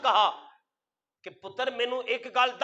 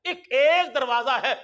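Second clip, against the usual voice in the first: fervent cry. Retold or imitated. Old pilgrim crying out to God, fervent shout. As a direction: cry out that there is one door.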